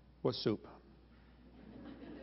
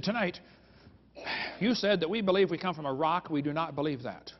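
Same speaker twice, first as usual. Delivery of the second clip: retold protest, mildly worked up; mock upset. Upset woman confronting the speaker after a debate, mildly indignant. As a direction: imitate an indignant complaint, firm and measured. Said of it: "she was obviously upset".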